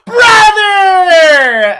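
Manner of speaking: high, loud tearful cry of brother; joyful shout. Acted. Little girl seeing her brother again, crying joyful shout. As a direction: scream it with joy and tears. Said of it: "the girl pops back up and goes".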